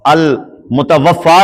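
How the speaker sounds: المتوفا said slowly, ending in a long a; careful reading. Shown as a demonstration. Preacher slowly reads the word المتوفا to the congregation. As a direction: spell out المتوفا, almutawaffa, unhurried. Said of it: "لکھا ہوتا ہے المتوفا".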